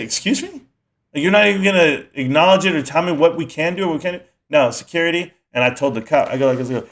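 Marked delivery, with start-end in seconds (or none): 0.0-4.3 sharp high "excuse me" in outrage; indignant disbelief. Retold or imitated. To the rude manager, an indignant high retort.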